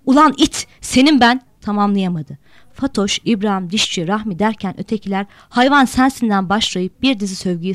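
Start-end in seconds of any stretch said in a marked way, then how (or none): 0.1-1.4 1 trembling rage. A narrator's reading. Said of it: "sinirden titreyen kısık sesi". 5.5-6.5 1 angry retort. Acted. Group curses back.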